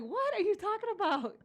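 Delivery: high-pitched mock bafflement; retold bewilderment. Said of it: "and I was like".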